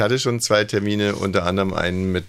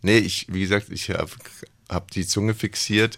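mushy speech, tongue held in place; holding tongue. Pretend. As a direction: talk around a fixed tongue. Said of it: "wieso kannst du dann nicht mehr vernünftig reden".

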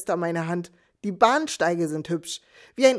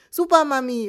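put-on child's cheer; 6 semitones higher, 4 dB louder than usual. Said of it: "rief mein Sohn".

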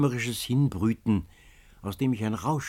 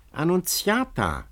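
high, loud, drawn-out call; calling again; 9 semitones higher, 4 dB louder than usual. A narrator's reading. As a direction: call the name slowly from far away. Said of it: "rief es aufs Neue".

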